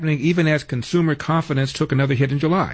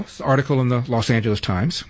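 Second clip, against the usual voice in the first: normal talking voice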